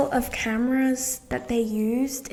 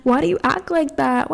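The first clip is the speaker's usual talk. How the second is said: exasperated question; 4 semitones higher, 5 dB louder than usual. Retold or imitated. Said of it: "And I'm just like".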